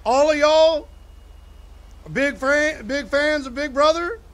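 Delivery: high, forced cheery question; mock upbeat small talk; fake enthusiasm. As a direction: pretend to be thrilled for them. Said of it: "and I was like".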